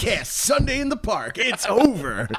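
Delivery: mock triumphant card player. Podcaster play-acts trumping a friend's card, mock triumphant. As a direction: declare a winning card with mock drama. Playing an imaginary card game.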